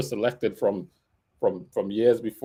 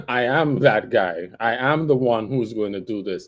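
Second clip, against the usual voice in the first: secure self-assurance. Acted. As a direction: state it with settled confidence. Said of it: "And he was secure".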